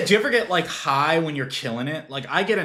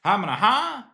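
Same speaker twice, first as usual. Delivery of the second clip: stoned comic mumble; 10 semitones higher, 7 dB louder than usual. Retold or imitated. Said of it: "they do comedy and they're just like".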